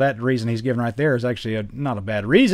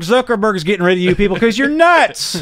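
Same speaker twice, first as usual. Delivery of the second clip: mock exasperation; 11 semitones higher, 6 dB louder than usual. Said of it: "retorting to conspiracy sharers".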